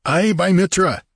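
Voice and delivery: high, hearty assent; eager pirate. A narrator's reading. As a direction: swear agreement as a pirate. Pirate swears agreement.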